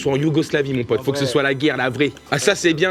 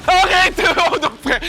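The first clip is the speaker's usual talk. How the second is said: high, loud scream of stop; panicked shout; 14 semitones higher, 5 dB louder than usual. Real, not acted. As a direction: yell at him to stop. About to be shot. (cri aigu et fort)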